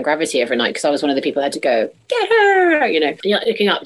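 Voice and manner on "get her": high, loud chorus yell; high cheering cry; ensemble shout. Retold or imitated. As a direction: belt it out like the ensemble.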